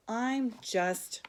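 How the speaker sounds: slow, whispered and resigned; sad whisper. Acted. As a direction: let it fall away, defeated and slow. Hermie ends his prayer sadly.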